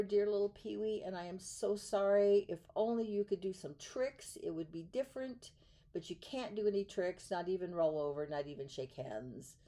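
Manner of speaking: lightly voiced sorry circus man saying goodbye; mild sad circus man. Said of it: "the circus man cried, and he said".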